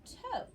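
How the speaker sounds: "toe" said high with a long o; long o syllable. Shown as a demonstration. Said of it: "I would pronounce that".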